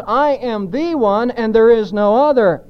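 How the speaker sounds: firm weight on "I am the one"; emphatic declaration. Shown as a demonstration. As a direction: stress "I am the one" as exclusive. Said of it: "it's emphatic, which means".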